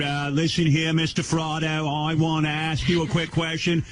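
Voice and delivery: high, put-on interrogator's voice; hammed-up official putting a question; Kennedy impression. Host mimics Kennedy questioning mobster at hearing, hammed-up impression. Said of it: "do impressions of my voice ... Kennedy's voice".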